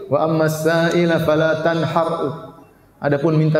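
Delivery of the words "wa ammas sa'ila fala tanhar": slow, lightly mocking recitation; imitating the imam's recitation. Preacher imitating the imam who misread the verse, slow mock recitation. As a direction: copy the overconfident imam's misreading, slowly. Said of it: "Dia baca begitu".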